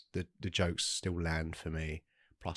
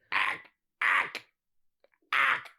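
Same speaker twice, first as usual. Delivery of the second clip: very high, shrieking Martian ack; pterodactyl shriek; much slower than usual. Pretend. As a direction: screech it out like a pterodactyl. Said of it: "You kinda sound like a pterodactyl now".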